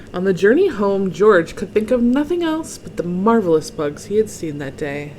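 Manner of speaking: expressive storybook narration; story read-aloud. A narrator's reading. Reader tells children of George's bug dreams, expressive storytelling. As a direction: relish each item for young listeners. Reads picture book to children.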